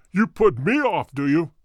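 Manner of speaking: loud, angry retort; angry threat. A narrator's reading. Roylott shakes his crop at Holmes, angry. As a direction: snarl it back in rage.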